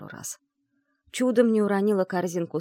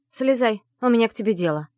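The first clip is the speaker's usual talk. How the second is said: commanding tone; 3 semitones higher, 5 dB louder than usual. Acted. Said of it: "приказным тоном произнесла".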